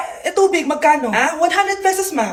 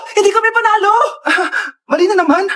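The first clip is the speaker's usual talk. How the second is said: mock cry; 4 semitones higher than usual. Mother wails losing again.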